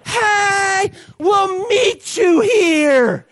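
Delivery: calling out. Pretend. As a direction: shout across the lake. Crowd calling across water.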